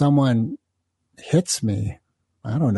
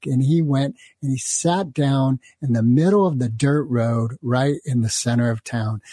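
ordinary talk

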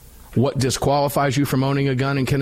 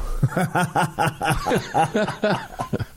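incredulous high laugh; 6 semitones higher, 3 dB quieter than usual. Real, not acted. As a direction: burst out laughing in disbelief. Laughs at BB gun rule.

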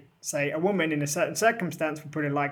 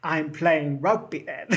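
mock excuse while laughing; slower than usual. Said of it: "and go".

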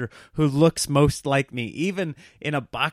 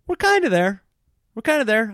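mock dreamy; 10 semitones higher, 5 dB louder than usual. Mimicking gamers' tricked brains.

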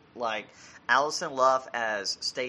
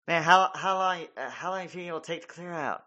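higher mock whisper-chat under the ring; mock wrestler under the ring; 6 semitones higher, 3 dB louder, faster than usual. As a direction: play a stuck wrestler, hushed and rushed. Acting wrestlers hiding under ring.

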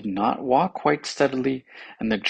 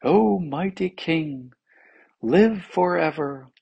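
slow, raised ceremonial address; eloquent; 5 semitones higher, slower than usual. A narrator's reading. Tongue addresses the king for mercy, eloquently. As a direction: hail a monarch with drawn-out grandeur. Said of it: "displayed all its power of eloquence".

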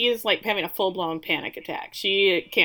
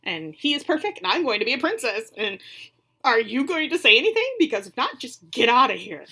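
indignant; 2 semitones higher than usual. Retold or imitated. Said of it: "she says".

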